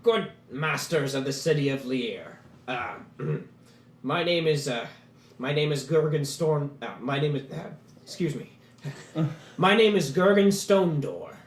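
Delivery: slow, stumbling dwarf fumbling his own name; a lightly voiced jittery dwarf tripping over his intro; mildly nervous dwarf petitioner. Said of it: "A little, little nervous".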